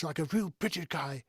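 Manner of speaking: put-on British accent. Shown as a demonstration. Mimicking advice to sound like a British guy, British accent. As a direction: slip into a mock British accent. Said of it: "or more British".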